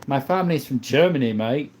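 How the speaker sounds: playful put-on British accent. Telling viewers where the family is from, British accent. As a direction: lay on a matey British accent. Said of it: "I stop your British hate".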